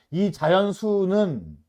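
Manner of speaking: deliberate, drawn-out teacher reading; slow reading. Shown as a demonstration. Teacher rereading a math problem for students, slowly. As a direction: read it out slowly, stretching the words. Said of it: "다시 천천히 읽으면서".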